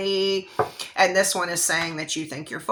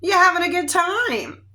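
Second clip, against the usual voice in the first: high, loud, sing-song fake friendliness; sweet on the surface, sly underneath; fake-friendly girl; 11 semitones higher, 5 dB louder than usual. The pushy girl greets her target, falsely sweet. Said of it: "she says to you".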